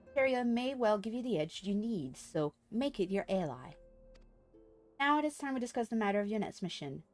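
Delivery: brisk, measured story reading; formal quest-giver reading. Acted. Streamer voices a quest giver explaining materia, formal read-aloud. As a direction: read it as formal game dialogue. Reads game character's dialogue aloud.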